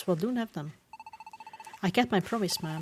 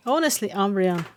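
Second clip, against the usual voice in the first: loud, rising, overcome with relief; emotional outburst; 6 semitones higher, 6 dB louder than usual. Acted. Espeon cries out to Umbreon, overwhelmed and loud. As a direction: let the relief burst out loud.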